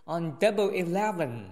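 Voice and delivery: "Double Eleven" as an excited exclamation. Shown as a demonstration. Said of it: "Double Eleven这里声调可以高一些". ("Double Eleven"声调提高)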